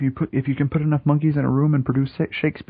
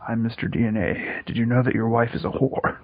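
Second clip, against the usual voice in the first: sultry narrator. Pretend. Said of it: "this deep, sultry voice".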